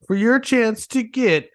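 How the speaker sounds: slightly hammed-up prize announcer; lightly put-on announcer voice; mock contest promo. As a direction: sell it like a cheesy giveaway plug.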